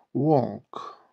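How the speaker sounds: "Walk" with the L swallowed: wawk. Shown as a demonstration. Teacher shows learners how to pronounce it, "Walk" with swallowed L. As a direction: say "Walk" with no clear L. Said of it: "L harfini biraz yutarak söylüyoruz".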